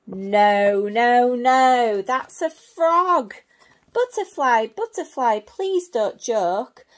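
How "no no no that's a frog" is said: emphatic no. Acted. Monkey corrects butterfly again.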